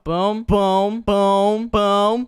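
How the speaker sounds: loud, punchy sound-effect word on each hop; rhythmic excited booms. Real, not acted. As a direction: call out each jump as it lands. Chanting along with successful jumps.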